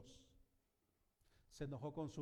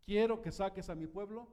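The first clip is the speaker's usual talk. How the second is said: voice of God; 4 semitones higher, 10 dB louder than usual. Acted. God's command to Moses quoted.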